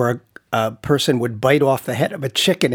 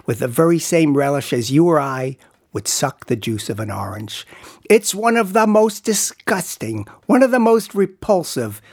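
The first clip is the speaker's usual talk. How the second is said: slow, drawn-out carnival barker spiel; pitchman's voice; slower than usual. Shown as a demonstration. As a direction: sell the geek show from the stage, slowly. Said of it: "read in your best pitchman's voice".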